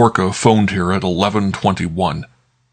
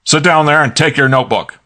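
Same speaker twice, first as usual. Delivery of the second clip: growling; 8 semitones higher, 4 dB louder than usual. A narrator's reading.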